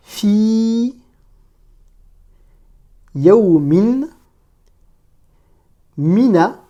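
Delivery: slow Arabic reading model, long pauses between words; isolated, carefully sustained words; detached word-by-word. Shown as a demonstration. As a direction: read each word on its own, vowels held. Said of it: "je vais lire chaque mot de manière détachée".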